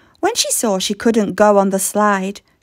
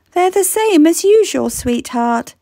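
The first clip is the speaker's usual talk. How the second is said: gentle reply; 5 semitones higher than usual. Acted. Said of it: "her mum replied".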